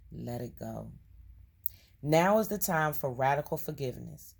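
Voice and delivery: measured reading with lightly punched key words; card reading aloud. Acted. Reading a forgiveness card to viewers, measured read-aloud. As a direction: read it out as earnest guidance.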